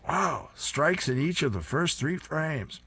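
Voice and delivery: high, slow delighted exclaim; excited shout. A narrator's reading. Senior citizen Lola crowing at the bowling alley, high and slow. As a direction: crow over the strikes.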